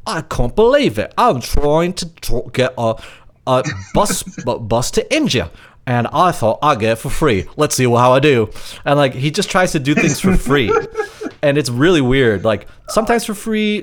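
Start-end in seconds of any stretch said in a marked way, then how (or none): 0.0-8.5 imitated Welsh accent, pitched up at first. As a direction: put on a halting, playful Welsh accent. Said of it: "Welsh accent".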